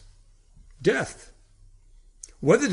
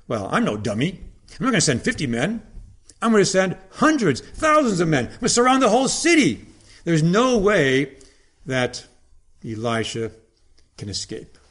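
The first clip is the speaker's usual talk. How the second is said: boastful king's thoughts. Retold or imitated. Preacher voicing the scheming king of Syria, mildly acted boast. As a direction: brag like a proud king sure of his army. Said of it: "So now the king of Syria thinks".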